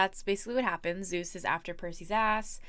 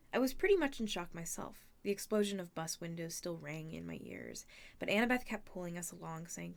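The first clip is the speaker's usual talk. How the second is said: quieter read-aloud storytelling; story narration; 3 dB quieter than usual. A narrator's reading. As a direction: narrate the tale to listeners. Reads the novel aloud.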